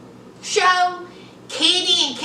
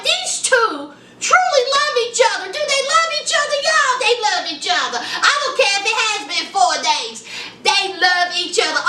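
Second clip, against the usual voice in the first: excited gushing; 3 semitones higher, faster than usual. Real, not acted. Gushing over the couple.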